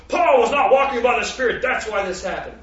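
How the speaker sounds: lightly voiced know-it-all verdict; preacher mimicking stuffy theologians; mocking theologians. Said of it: "a lot of men who teach the doctrines of men go".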